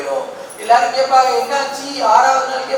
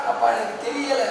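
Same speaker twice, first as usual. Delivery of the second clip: soft, understated voice of weeping Rama; tearful, imitated; 7 dB quieter than usual. Rama tells Sugriva he does not know, softly tearful. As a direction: quietly act out a tearful admission. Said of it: "கண்ணீர் விட்டு அழுகிறார்".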